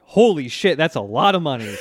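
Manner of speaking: mildly freaked-out amazement; freaking out. Retold or imitated. Two friends react to a kid's coin hoard, mock freak-out. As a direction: retell their stunned outburst with some punch. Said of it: "both freak the fuck out".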